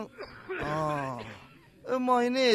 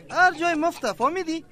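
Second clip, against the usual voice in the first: scolding; 8 semitones higher, 4 dB louder than usual. Acted. Lab man lectures patient on germs.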